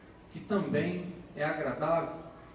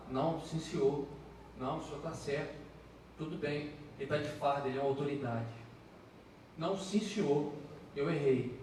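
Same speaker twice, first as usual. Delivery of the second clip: submissive; 3 semitones lower, 7 dB quieter, faster than usual. Retold or imitated. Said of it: "eu vejo alguns sendo abordados".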